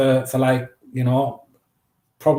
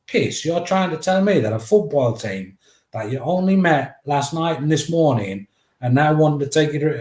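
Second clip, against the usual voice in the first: higher incredulous dad voice; a dad doubting the boys' story, pitched up; disbelieving dad; 4 semitones higher than usual. Retold or imitated. Dad doubting his sons' football team story, lightly raised disbelief. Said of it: "my dad's like".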